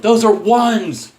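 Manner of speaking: high, loud laughing shout at the rival; mock Conor shout. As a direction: yell it through laughter, hammed-up. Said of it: "and Conor's like".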